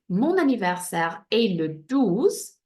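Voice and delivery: "Mon anniversaire est le douze" said slowly in careful French; French model sentence. Shown as a demonstration. Teacher showing pupils the sentence, careful French model. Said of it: "So you can see".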